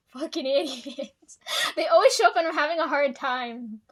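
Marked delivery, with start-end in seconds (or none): 0.1-1.4 laughing. Real, not acted. Laughing at coworkers.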